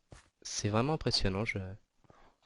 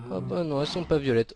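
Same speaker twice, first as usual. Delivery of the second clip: disappointed; 5 semitones higher, 3 dB louder, faster than usual. Real, not acted. Checks cows again, disappointed.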